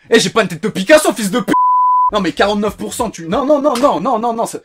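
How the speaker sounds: indignant protest. Real, not acted. Protesting his 49 percent score.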